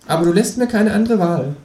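high kangaroo playing tough interrogator; hammed-up menace, pitched high; mock threat. Kangaroo interrogates narrator, mock threatening.

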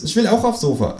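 high-pitched kangaroo; kangaroo character voice. A narrator's reading. Kangaroo correcting itself to the narrator, high cartoon voice. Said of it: "sagt es".

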